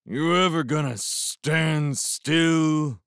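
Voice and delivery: loud, slow, high moan; moaning beast. A narrator's reading. Beast to the man dodging its boot, moaning. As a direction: moan it out in drawn-out, loud frustration. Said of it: "moaned the beast".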